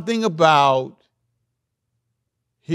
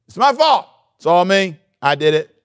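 anguished confession; 4 semitones higher, 6 dB louder than usual. Retold or imitated. Preacher voices Jonah's confession.

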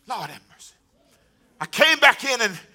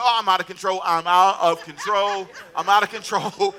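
laughing panic; 3 semitones lower, slower than usual. Retold or imitated. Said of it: "I said".

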